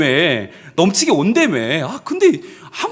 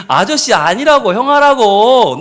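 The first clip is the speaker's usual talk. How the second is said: insistent protest; 4 semitones higher, 6 dB louder, slower than usual. Retold or imitated. Teacher insists to child.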